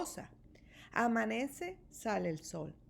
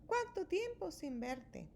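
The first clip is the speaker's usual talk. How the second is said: hare; 7 semitones higher, 5 dB quieter than usual. A narrator's reading. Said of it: "dice Liebre".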